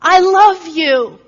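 high, loud, slow joyful cry of love; imitating an overjoyed young woman; cries out. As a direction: call it out in childlike delight. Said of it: "she cries out".

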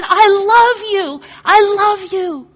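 high, loud joyful repeat; imitating her ecstatic cry; cries out. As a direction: cry it out with childlike joy. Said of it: "she cries out again".

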